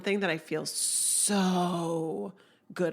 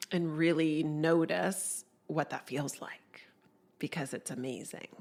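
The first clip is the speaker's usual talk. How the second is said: whispering. Real, not acted. Intimate invitation to notice feelings.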